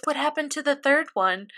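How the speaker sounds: quiet, hushed retold question; quietly. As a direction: ask it almost under the breath. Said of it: "Mikasa very quietly goes".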